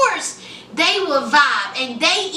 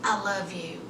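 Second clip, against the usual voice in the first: tender murmur; 10 semitones lower, 12 dB quieter than usual. Retold or imitated. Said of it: "She says".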